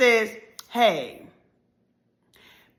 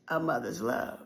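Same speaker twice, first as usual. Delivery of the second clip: soft refrain; 9 semitones lower, 9 dB quieter than usual. Acted. Recurring refrain, low and soft.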